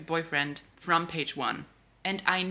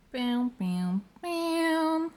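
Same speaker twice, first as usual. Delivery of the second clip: dramatic bam; 11 semitones higher, much slower than usual. Acted. Dramatic reveal sound effect.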